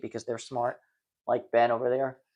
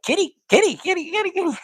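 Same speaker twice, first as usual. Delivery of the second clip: high sing-song kitty call; calling the kitty sweetly, very high; high cat-calling voice; 5 dB louder, faster than usual. Retold or imitated. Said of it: "I'm turning into a famous rocker, where I'm like".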